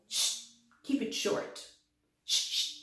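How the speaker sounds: whispered shh, keep it short; shushing whisper. Acted. Letter T hushing the vowel O in a whisper. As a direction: hush the noisy vowel in a whisper. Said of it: "he told the vowel".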